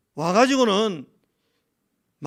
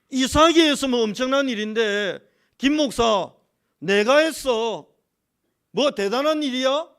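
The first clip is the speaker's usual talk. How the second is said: louder, higher, challenging voice of God; 하나님 말씀 흉내; 4 semitones higher, 5 dB louder than usual. Retold or imitated. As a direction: retell God's rebuke, stretching the words loudly. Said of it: "하나님이 계속 제 마음에". (하나님이 따지시듯 크고 높게)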